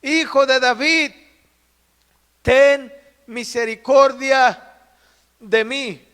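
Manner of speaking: loud, drawn-out plea with pauses; imitated fervent shouting. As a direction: cry out phrase by phrase, stretching each. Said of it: "Él gritaba con más entusiasmo". (imitando un clamor ferviente, a gritos pausados)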